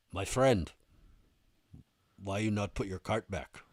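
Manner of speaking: lightly imitated Russian accent. Big Russian confronts man over shopping cart, Russian-accented. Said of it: "a seven-foot-tall Russian dude".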